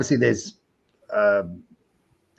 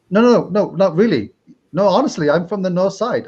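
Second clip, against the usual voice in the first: higher, emphatic retold denial; insistent protest; 4 semitones higher than usual. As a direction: insist on it, pitch raised. Retells insisting on his local origin.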